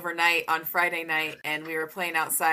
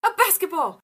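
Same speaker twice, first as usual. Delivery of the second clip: put-on high toddler voice into laughing booga; voicing a small child; 5 semitones higher, 4 dB louder, faster than usual. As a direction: imitate a toddler's sound effect. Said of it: "And he goes".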